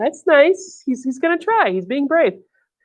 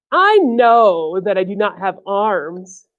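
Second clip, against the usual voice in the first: storybook snake voice; 4 semitones lower, slower than usual. Acted. Voicing the snake.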